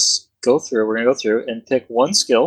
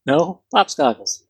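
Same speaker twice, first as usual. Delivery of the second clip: put-on slow, higher botched Russian accent; bad Russian accent; 5 semitones higher, slower than usual. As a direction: correct them in poor Russian-accented English. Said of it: "my best Russian accent".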